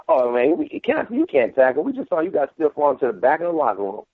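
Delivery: lightly voiced opponent taunting; mock trash talk. Opposing player taunting an injured defender, mocking. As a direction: tease him the way a rival would on the line. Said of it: "gonna talk trash to you about that".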